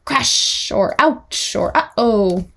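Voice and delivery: slow, acted-out exclamations; play sound effects. Shown as a demonstration. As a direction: act out each little mishap word for a child. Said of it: "environmental sound goals".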